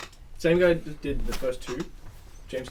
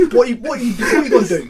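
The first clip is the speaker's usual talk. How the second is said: high, loud mock-Cockney challenge; squaring up in hammed-up Cockney; Cockney accent; 7 semitones higher, 13 dB louder than usual. Teacher challenging a student, loud mock-Cockney accent. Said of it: "it's like a Cockney accent".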